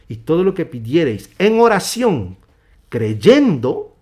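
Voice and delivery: emphatic preacher's reading; building sermon delivery; scripture proclamation. Acted. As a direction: proclaim the promise, punching key words loudly.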